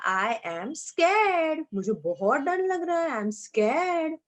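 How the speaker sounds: slow, stretched mock-fearful scared. Shown as a demonstration. Teacher acting Priya afraid of the dark, slow and mock-fearful. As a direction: draw out scared like a frightened child. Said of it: "तो उसने बोला".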